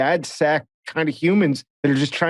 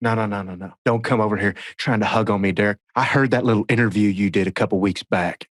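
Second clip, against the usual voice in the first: lightly voiced impression, low and put out; mock reproach in a lowered voice; a hint of an imitated grumbler; Brad; 3 semitones lower than usual. Imitating Brad brushing off hug.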